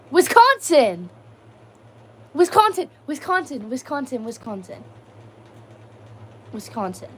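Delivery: happy yell that trails off; excited cheer, fading. Real, not acted. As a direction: celebrate the answer, then let it die away. Excited repeat of realized answer.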